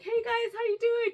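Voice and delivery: high-pitched mock-mom hello; imitated friendly greeting. Voicing her mom greeting everybody.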